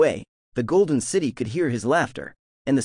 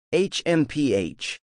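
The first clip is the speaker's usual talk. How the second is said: smug hmph; slower than usual. A narrator's reading. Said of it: "waved his hand and smirked".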